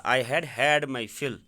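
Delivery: I had had my fill, stretched out word by word; slow dictation. Shown as a demonstration. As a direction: say it very slowly so it sinks in. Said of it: "یعنی میں نے اپنا پیٹ". (بہت آہستہ، لفظ لفظ الگ)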